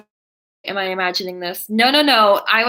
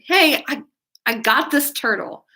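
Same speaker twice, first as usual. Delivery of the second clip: mock innocent; 5 semitones higher than usual. Bringing turtle home to mom.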